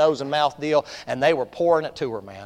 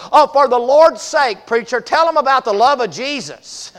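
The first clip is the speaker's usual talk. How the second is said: put-on old lady's voice; 8 semitones higher, 10 dB louder than usual. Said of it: "She said".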